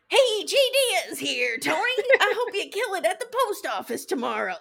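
loud, high, hammed-up hype-man greeting; a brassy cameo shout-out at full volume; Che's cameo voice. Mocking Che's cameo bit at bedtime, hammed-up and loud. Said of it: "I'm just gonna act this out".

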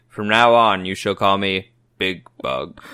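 slow, low self-important boss; mock-pompous decree. Cohost pretends to instruct subordinates at a meeting, mock-pompous decree. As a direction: proclaim it with measured grandeur.

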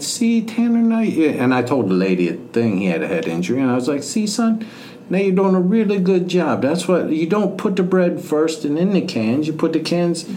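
teasing a teenage son in the store with fake praise; mock proud dad. Dad mocking son in public.

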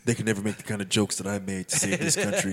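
lightly voiced self-important action star, low; imitating Steven Seagal. Co-host imagines the actor hearing their jokes, low mock voice. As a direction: drop the pitch for a mock solemn boast. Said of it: "He's gonna be like".

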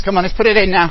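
rally the runners on the last rep; coach shouting encouragement. Real, not acted. Coach urging final sprint.

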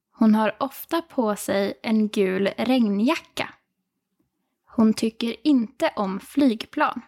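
slow, careful learner speed. Shown as a demonstration. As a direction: read it slowly for learners. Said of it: "Let's hear it one more time at normal speed".

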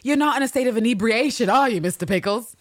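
high, loud, animated character voice. Acted. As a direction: pitch it up and challenge him, theatrically. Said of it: "I feel this authentic energy from the speaker".

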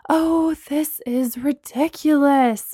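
slow, exasperated snap; snapping. Acted. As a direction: bite the words off, fed up. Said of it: "Bree snapped".

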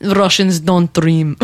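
put-on Russian accent. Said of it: "the chairman's like".

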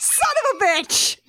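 laughing curse. Real, not acted. Mock fury over Christmas error.

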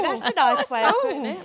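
playful mock-Cockney echo; put-on Cockney. Shown as a demonstration. Guest echoing their own accidental accent, put-on Cockney. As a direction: repeat it in a knowingly Cockney voice. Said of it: "I've just got all cockney".

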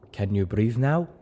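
mildly gentle question with a rising lilt; a touch of tender concern. A narrator's reading. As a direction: check on a friend gently. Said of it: "Zenith asked gently".

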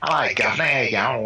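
put-on a light, casual Cockney accent. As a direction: toss off a quick Cockney greeting. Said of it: "if you take a Cockney accent".

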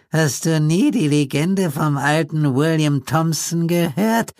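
put-on very high, slow reedy old man; ominous old man, slow and thin; high creepy old codger, drawn out; reedy old Pete. A narrator's reading. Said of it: "fragte Pete überrascht".

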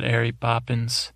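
"Mary" with its M missing; dropped first letter. Retold or imitated. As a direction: quote "Mary Poppins" without the M, as "Airy Poppins". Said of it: "films with one letter missing".

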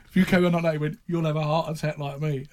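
put-on a touch of a French accent, lightly done; barely-there French manager voice; hint of French accent. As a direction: Gerard Houllier with a faint French accent. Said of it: "I'm not doing the French impression".

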